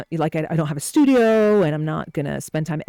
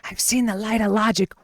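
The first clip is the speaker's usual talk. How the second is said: put-on lightly raspy old caller; retry the raspy impression; a hint of a raspy old man; 4 semitones higher than usual. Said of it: "someone with a raspy voice".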